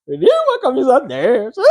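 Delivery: high, fast, laughing covetous voice; greedy comic character. Retold or imitated. Preacher imitating a greedy man eyeing a Flamengo shirt, high laughing mockery. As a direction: drool over the shirt like a TV comedy character. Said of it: "é igual aquele, aquele que tinha no Zorra Total".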